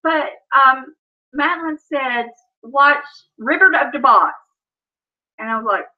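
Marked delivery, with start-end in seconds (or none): 2.6-4.3 "River of the Boss" as "ribberd ub duh boss"; small child's garbled "River of the Boss"; toddler mispronunciation. Retold or imitated. Toddler asking for her film, garbled baby talk. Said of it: "when she was learning to talk".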